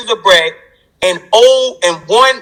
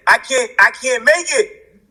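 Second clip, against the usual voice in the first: higher-pitched, overwhelmed protest; retold desperate plea; 5 semitones higher than usual. Man retelling his cry to God in solitary, desperate plea. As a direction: plead it as a remembered breakdown.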